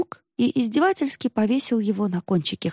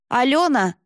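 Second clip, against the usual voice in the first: higher-pitched reproving call; одёргивание; 6 semitones higher, 4 dB louder than usual. A narrator's reading. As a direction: pull her up by name. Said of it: "одёрнул её мужчина". (одёрнуть окликом)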